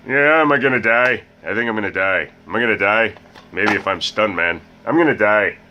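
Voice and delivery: mock panicked YouTuber. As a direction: ham up a gamer's fear of dying. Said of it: "sound like Markiplier".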